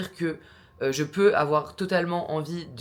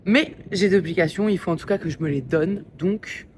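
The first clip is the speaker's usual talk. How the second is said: raised voice outdoors in the wind; shouting over wind; 2 semitones higher, 6 dB louder than usual. Real, not acted. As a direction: talk loudly over the wind. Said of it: "si vous m'entendez avec le vent".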